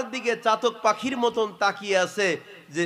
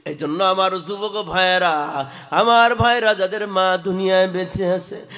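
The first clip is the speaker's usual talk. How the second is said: forceful sermon delivery; chanted warning from the pulpit; preaching; 5 dB louder than usual. Real, not acted. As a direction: exhort the congregation, drawing out the phrase endings. Preacher exhorts the young men.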